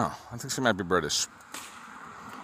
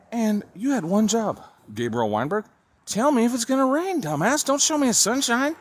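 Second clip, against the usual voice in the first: angry rant; 7 semitones higher than usual. Real, not acted. Ranting at weather app.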